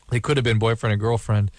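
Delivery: coughing, throat catching on spit; choking on saliva. Real, not acted. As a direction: talk through a choking cough. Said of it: "I'm choking on my own saliva".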